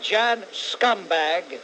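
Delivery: slow, drawn-out name-calling; deliberate insult. Real, not acted. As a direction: stretch each word of the insult. Insults the caller he is tired of.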